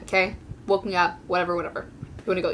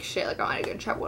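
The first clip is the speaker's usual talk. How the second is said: panicked whisper; 7 dB quieter, much faster than usual. Retold or imitated. Inner panic thought while caught.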